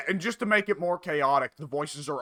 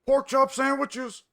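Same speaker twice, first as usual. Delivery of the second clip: high, slow exclamation from a parody cartoon; skit quote; 11 semitones higher, slower than usual. Friend quotes the classic parody skit, high slow exclamation. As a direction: draw it out, pitched way up.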